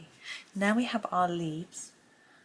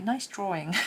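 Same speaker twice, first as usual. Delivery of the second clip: laughing; 3 semitones higher, 3 dB louder than usual. Retold or imitated. Quoting teacher while laughing.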